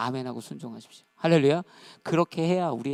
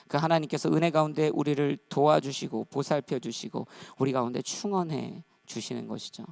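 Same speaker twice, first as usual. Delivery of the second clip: ordinary talk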